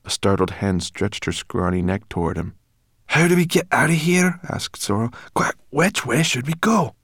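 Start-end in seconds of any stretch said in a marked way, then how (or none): 3.1-6.9 higher, louder, urgent questions; anxious. Acted. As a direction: press him anxiously. Sorrel urgent escape.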